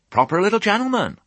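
high-pitched approving rustic ewe; admiring murmur. A narrator's reading. Sheep flock charmed by polite piglet, admiring murmur. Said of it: "changed to murmurs of".

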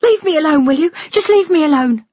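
loud, very high-pitched outburst; upset daughter snapping loudly; angry dismissal. Acted. Daughter breaks away from her father.

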